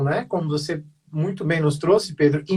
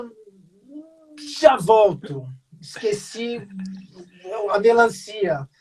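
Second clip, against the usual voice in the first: a hammed-up, awkward brush-off, mostly higher; mock evasive excuse; 3 semitones higher than usual. Meeting the neighbor at the door, mock flustered excuse. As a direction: fake a flustered excuse to slip away.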